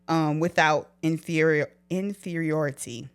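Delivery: stumbling through new braces; words tripping over braces. Real, not acted. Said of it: "mess up on words if I got these braces".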